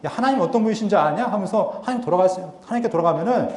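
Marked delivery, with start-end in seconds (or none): 0.0-1.2 lightly imitating people being flippant about God; mock scoffing. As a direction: play a mildly sneering, casual challenge. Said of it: "그러니까 비아냥거리는 거죠". (가볍게 비아냥거리는 백성들 흉내)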